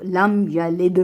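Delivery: slow लम या लिद with bounced final d; qalqalah bounce. Shown as a demonstration. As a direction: recite लिद releasing the d with a small echo. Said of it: "दाल पर मखरज को हिलाकर वक्फ करेंगे". (लिद की दाल पर मखरज हिलाकर)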